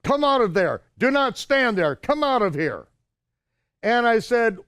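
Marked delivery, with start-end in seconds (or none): 0.0-2.9 retold order. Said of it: "they come over".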